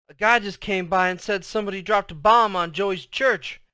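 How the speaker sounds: high, loud, urgent outburst; alarmed announcement. A narrator's reading. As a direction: blurt out terrible news. Brother breaks the bombing news.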